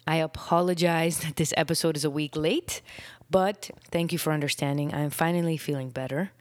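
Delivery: short of breath, talking between breaths; breathless after being sick. Real, not acted. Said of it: "I'm still a little out of breath".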